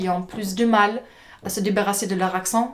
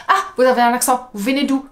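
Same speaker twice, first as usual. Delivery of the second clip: nosy stranger; 4 semitones higher, 5 dB louder, faster than usual. Retold or imitated. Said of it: "Il faut pas dire tout de suite".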